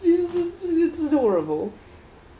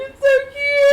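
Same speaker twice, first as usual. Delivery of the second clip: higher, louder gushing coo; gushing cute; 9 semitones higher, 5 dB louder than usual. Retold or imitated. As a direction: coo over something adorable. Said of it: "she's like".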